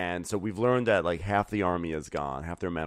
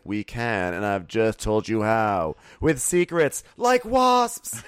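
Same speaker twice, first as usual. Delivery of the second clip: mock menacing queen; 3 semitones higher, 8 dB louder, slower than usual. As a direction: climb to a loud, shrieking threat. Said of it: "She's like".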